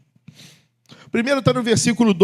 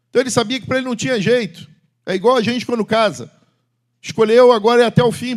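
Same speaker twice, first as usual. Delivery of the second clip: fast preaching; 6 semitones higher, 6 dB louder than usual. Acted. Preaching climax.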